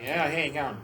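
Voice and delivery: broad country Aussie. Retold or imitated. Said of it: "it comes out harder".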